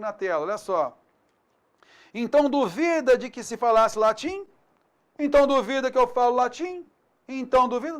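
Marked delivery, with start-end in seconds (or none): 2.1-8.0 indignant rising questions with Então duvida lifted; challenging. Shown as a demonstration. Teacher acting someone challenged about speaking Latin, indignant. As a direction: dare them to doubt you.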